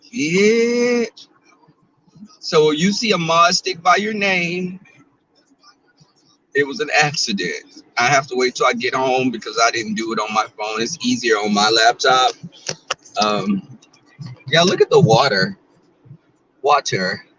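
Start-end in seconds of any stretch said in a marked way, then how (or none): 0.1-1.1 sarcastic yeah. Retold or imitated. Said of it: "I'm like". 14.5-15.6 excited. Real, not acted. Excited by the view. 16.6-17.3 "Water" with a drawled southern "wɔtə˞"; southern accent. Shown as a demonstration. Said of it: "My southern accent".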